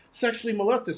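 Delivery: half-voiced imitation of yelling; retold yell. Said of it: "she yelled it at me".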